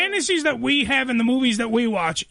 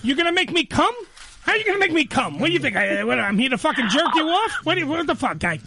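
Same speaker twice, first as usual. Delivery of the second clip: Joe Pesci voice in bed. Pretend. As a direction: bark it like a Goodfellas wiseguy. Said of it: "talk like Joe Pesci".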